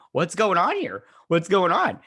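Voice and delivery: high, loud bewildered questions; re-enacted panicky demand; mock alarmed outcry. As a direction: call out in exaggerated confusion. Own alarmed reaction, re-enacted.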